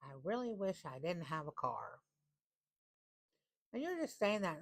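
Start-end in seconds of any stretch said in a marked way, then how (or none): 0.0-2.0 flippant venting. Retold or imitated. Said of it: "you are like / in some little flippant manner".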